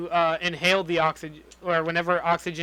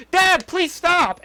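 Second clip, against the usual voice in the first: high, louder, drawn-out mock plea; mock yelled plea; 11 semitones higher, 5 dB louder, much slower than usual. Imitating a daughter begging Dad to stop, mock yell. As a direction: cry it out slowly, imitating a pleading daughter. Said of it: "Have her come in and yell".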